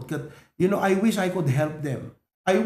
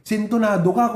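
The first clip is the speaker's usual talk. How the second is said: mother's scolding; 4 semitones higher, 4 dB louder than usual. Retold or imitated. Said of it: "Sabi lang ko na ni Mama Idi".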